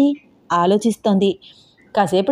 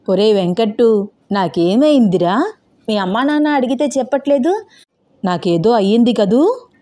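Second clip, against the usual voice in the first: fretful grandmother; 3 semitones higher than usual. Acted. Grandmother presses her grandson about her illness, lightly acted fretful plea. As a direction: drag the words out in worried complaint.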